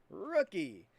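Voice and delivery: hoarse, voice giving out; losing your voice, raspy; raspy whisper. Real, not acted. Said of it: "I'm losing my voice today".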